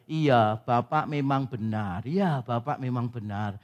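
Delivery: low, slow placating reassurance; lightly acted agreement, drawn out to appease; mock soothing pastor. Pastor placating a quarreling husband.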